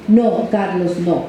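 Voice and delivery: firm, no-nonsense "No, Carlos". Retold or imitated. Therapist turning to stop Carlos at the switch, firm. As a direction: set the limit plainly, no softness. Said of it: "Y la mía era firme".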